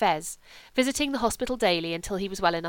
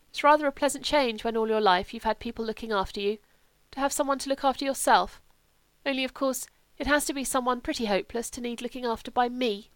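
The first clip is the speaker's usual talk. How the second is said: higher, musing invalid's voice; lightly voiced Sebastian; 4 semitones higher than usual. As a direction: lightly play a friend explaining himself. Voices Sebastian explaining himself.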